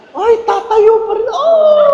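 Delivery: high, loud burst of eagerness; stuffed guest rising for dessert, high and loud; mock excited. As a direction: shoot up at the sight of dessert.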